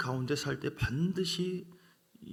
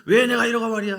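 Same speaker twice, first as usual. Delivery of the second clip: higher, louder puffed-up pastor's rant; indignant pastor; 6 semitones higher, 7 dB louder than usual. Retold or imitated. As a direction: play a self-important pastor fuming. Proud pastor complaining voiced.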